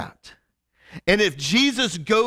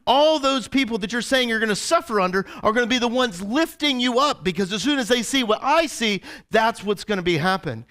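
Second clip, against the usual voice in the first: higher, incredulous protest; indignant Peter; 6 semitones higher than usual. Retold or imitated. Peter protests to Jesus in disbelief. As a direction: argue like he can't believe it. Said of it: "Peter objects to Jesus".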